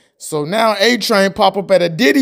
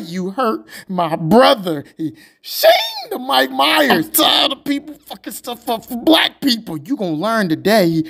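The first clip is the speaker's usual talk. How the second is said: vengeful voice; 4 semitones higher than usual. Acted. The character takes revenge.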